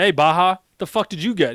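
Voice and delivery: mock call-out to a buddy. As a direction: shout the question across the room. Calling out to fellow Marine.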